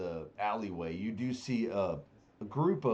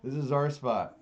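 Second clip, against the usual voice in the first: shrill reveler voice; 7 semitones higher, 11 dB louder than usual. Acted. Reveler blocks the priestess line.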